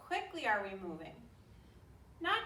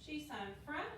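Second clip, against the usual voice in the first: sharp martial arts commands; 4 semitones higher, 4 dB quieter than usual. Acted. Drill command during form.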